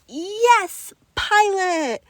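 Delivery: put-on high, loud child's yell. A narrator's reading. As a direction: cheer it out gladly. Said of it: "he yelled".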